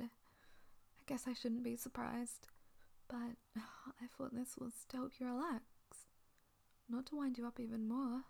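hushed, tender whisper. Acted. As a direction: whisper it softly and close. Whispered teasing.

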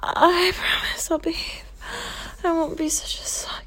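whispered promise with a catch of tears; tearful whisper. Acted. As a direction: whisper it, close to crying. Tearful apology in roleplay.

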